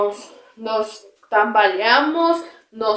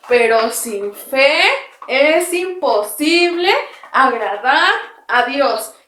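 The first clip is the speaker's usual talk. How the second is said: slow verse chanted while hopping; recited while jumping; slower than usual. Shown as a demonstration. Teacher jumping with the children, chanting the verse slowly. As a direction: bounce through the verse as you jump. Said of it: "Ahora saltando".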